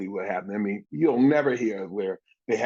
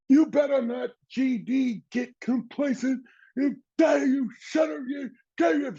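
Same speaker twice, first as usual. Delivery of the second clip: retold coach yelling. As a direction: shout him down like an angry coach. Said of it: "And he said".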